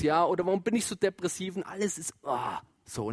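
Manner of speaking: gloomy depressed voice. Retold or imitated. Preacher imitates people who feel their life is dark, low and weary. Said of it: "dass Menschen sagen".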